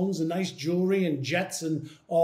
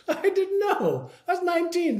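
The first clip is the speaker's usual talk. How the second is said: laughing; 11 semitones higher than usual. Real, not acted. Laughing at his younger self.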